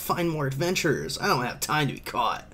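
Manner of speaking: put-on lively young pirate, starting high on the exclamation; breezy pirate hero. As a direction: play the hero making a quick getaway. Reads fleeing hero's lines.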